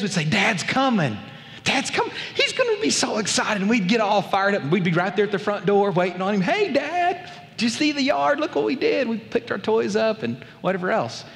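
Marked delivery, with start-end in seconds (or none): 0.2-3.6 high, bright-eyed shout of joy as Dad arrives; children thrilled to hear the truck; excited kids. Retold or imitated. Kids hear Dad's truck on good day, excited high call. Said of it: "on those days that were good days". 6.4-10.2 put-on eager kids. Kids greet Dad proudly.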